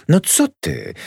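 a sudden indignant outburst; sharp protest. Acted. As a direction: protest hotly. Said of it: "zaprotestowała gwałtownie".

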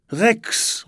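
high, loud call for a lost pet. A narrator's reading. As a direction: call the name out into the dark. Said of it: "ruft Niklas". (laut rufend)

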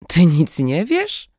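slow, disbelieving question; drawn-out mock astonishment; surprised. Kidnapper surprised at Sasza's ignorance, slow and disbelieving. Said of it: "zdziwiła się kobieta".

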